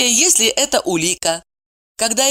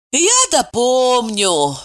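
sighing; 5 semitones higher, much slower than usual. A narrator's reading. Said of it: "вздохнула Ева".

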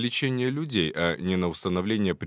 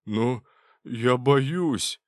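very slow, pleading; scared plea; 3 semitones higher, 3 dB louder, much slower than usual. Acted. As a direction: drag out the fear. Intern scared of morgue.

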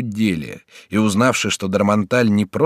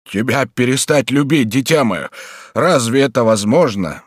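fervent cry; 3 semitones higher, 4 dB louder than usual. A narrator's reading. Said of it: "вскричал Бюва".

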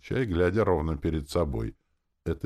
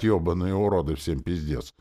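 mock yell; 2 semitones higher, 4 dB louder than usual. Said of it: "не мог я орать".

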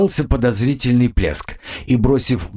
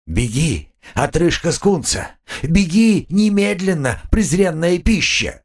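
menacing mutant; 7 semitones higher than usual. A narrator's reading. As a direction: threaten like a brute. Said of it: "грозным заявлением".

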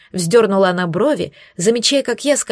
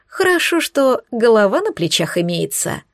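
mild scoffing retort, pitch jumping up on the first word; a touch of eye-rolling scorn; scornful snort. Acted. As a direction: toss it off with a light snort. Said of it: "Фыркнула она".

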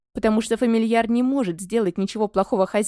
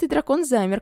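plain reading voice

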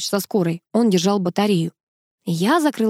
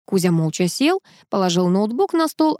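usual speaking voice

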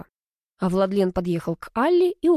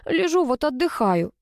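grumbling; 7 semitones higher than usual. A narrator's reading. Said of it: "проворчала Алла".

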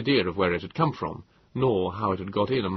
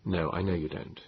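gently; 3 semitones lower, 6 dB quieter than usual. A narrator's reading. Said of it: "I said gently".

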